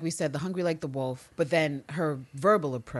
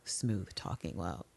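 smooth and low; 6 semitones lower, 11 dB quieter than usual. Retold or imitated. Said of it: "Anne Lister's like".

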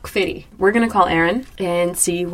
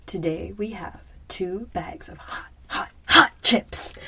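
dramatic whisper; slower than usual. Acted. Presenting the hot chips.

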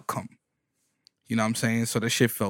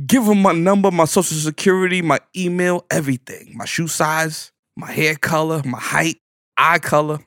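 higher and louder, eager babble; excited rush; 5 semitones higher, 5 dB louder than usual. Retold or imitated. Telling his homie to hand over everything, excited rush. Excitedly listing details to give.

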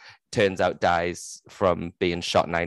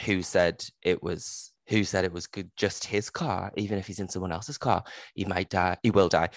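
mock ominous mother; 4 dB quieter than usual. Mother darkly warning her daughter, softer. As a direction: hush it like a prophecy. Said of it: "And she's like".

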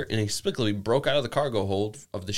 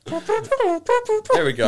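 bugle noise; 4 dB louder, much slower than usual. Acted. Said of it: "I can't do it as good".

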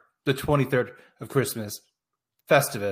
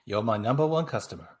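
put-on accidental Asian accent; 3 semitones lower, 4 dB quieter than usual. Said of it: "Why did I sound Asian?".

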